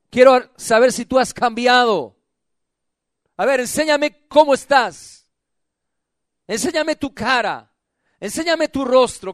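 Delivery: full-voiced, probing preacher as God; insistent challenge. God asking church whether it has changed, insistent challenge. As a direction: press each question on the listener.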